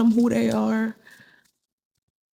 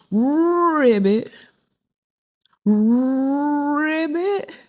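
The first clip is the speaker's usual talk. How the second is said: frog croak; 6 semitones higher, much slower than usual. Retold or imitated. Frog exposed by lion.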